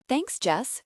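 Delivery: high, pleased little surprise; pleasantly surprised. A narrator's reading. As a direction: caught off guard, pleased. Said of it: "sounding pleasantly surprised".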